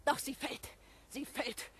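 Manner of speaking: slow, fading to a hush; bitter lament. Acted. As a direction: let it die away sadly. Abigail's bitter mask-falls lament.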